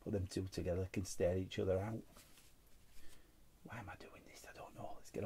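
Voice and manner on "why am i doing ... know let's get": whispered aside to himself; hushed embarrassed mutter. Real, not acted. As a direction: drop to a whisper.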